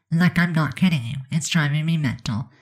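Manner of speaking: usual speaking voice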